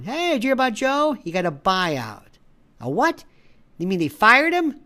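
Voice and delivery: acted friend chat. Friends arguing over a buyout, rising indignation. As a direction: play both friends, building to indignant.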